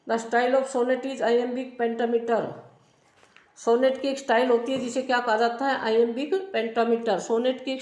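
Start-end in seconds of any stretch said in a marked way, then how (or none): 0.1-2.4 slow dictation. Shown as a demonstration. Teacher dictating notes to class.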